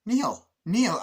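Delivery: loud, high acted call. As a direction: call the name out across a distance. Acts man calling out to Neil.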